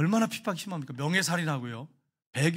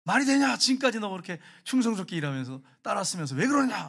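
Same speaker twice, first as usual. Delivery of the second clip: half-acted interrogation of the student; retold angry teacher. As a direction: play the angry teacher lightly. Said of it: "하면서 막 화를 내는 거예요".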